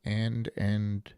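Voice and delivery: quiet, sluggish auctioneer; bored auctioneer impression. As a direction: drone through the bids half-asleep. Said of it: "That was my impression".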